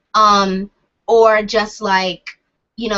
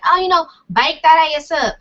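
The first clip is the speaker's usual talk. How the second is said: louder, higher Southern accent with "bike" for back; 6 semitones higher, 4 dB louder than usual. Shown as a demonstration. Mocking own Southern slip, pitched-up Southern accent. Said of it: "I do say bike instead of back".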